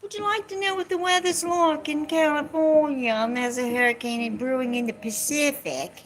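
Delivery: mimicking Alexa announcing the weather; imagined Alexa voice. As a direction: chirp it like a cheerful voice assistant. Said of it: "in my imagination".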